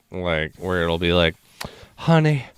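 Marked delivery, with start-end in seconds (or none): 2.0-2.4 put-on Midwestern accent. Drive-thru prankster asks for a drink in a light Midwestern accent. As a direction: play a fussy Midwestern customer at the drive-thru. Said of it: "Midwestern as fuck".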